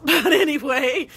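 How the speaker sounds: brushing past a painful topic with a laugh. Real, not acted. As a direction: laugh it off and move on. Nervous laugh after heavy topic.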